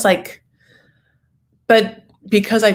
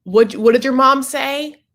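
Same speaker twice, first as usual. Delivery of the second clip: slow clueless Corey; 7 semitones higher, 4 dB louder, slower than usual. Retold or imitated. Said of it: "Corey's like".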